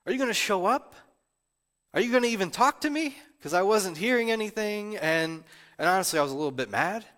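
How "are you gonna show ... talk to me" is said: high, pleading cry to God; pleading prayer. Retold or imitated. Pastor reliving months of unanswered prayer, pleading. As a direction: ask desperately where God has gone. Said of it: "I was honestly asking for months".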